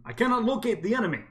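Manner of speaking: flat, loud computer announcement; ship intercom voice. Acted. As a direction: read it like a ship's AI over speakers. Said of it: "you can hear in the ship's, uh, intercoms".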